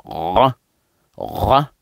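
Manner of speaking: short demo of a guttural "ra"; throaty "ra". Shown as a demonstration. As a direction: make "ra" from far back in the throat. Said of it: "ça se prononce dans la gorge, profondeur".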